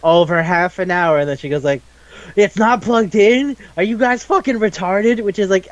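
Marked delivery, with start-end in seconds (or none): 2.4-5.2 high-pitched, drawn-out mock disbelief; slow, high, hammed-up incredulity; incredulous outburst. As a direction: act out exasperated disbelief, pitched up. Ringo's disbelief at unplugged router.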